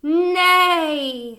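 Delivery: loud whinnied nay; whinny it out like a horse; horse neigh. A narrator's reading. Horse on the tractor, a loud neigh. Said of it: "said Horse".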